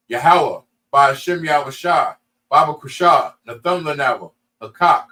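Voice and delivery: closing prayer in short, cadenced phrases; measured liturgical recital in Hebrew; Hebrew prayer recitation. Real, not acted. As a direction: recite it like a practised blessing.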